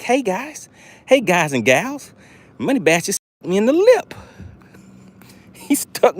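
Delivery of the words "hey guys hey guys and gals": high, slow silly fish greeting; playful fish voice. Pretend. Angler voicing the caught fish greeting viewers, high playful voice. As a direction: voice the fish saying hi. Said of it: "He's like".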